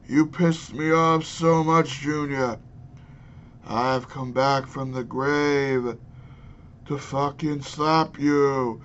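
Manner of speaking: put-on a zombie father scolding his son in a terrible Massachusetts Kennedy accent; bad Massachusetts Kennedy accent. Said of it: "worst M-, Massachusetts Kennedy accent I think I've ever heard".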